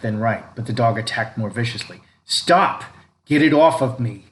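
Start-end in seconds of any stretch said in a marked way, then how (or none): 2.2-4.3 high, loud panicked yell; panicked scream. A narrator's reading. Boy attacked by the dog, screaming in panic.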